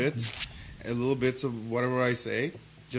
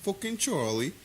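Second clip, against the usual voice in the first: laughing; 7 semitones higher, 4 dB quieter than usual. Real, not acted. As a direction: burst out laughing while saying it. Laughing outburst at a joke.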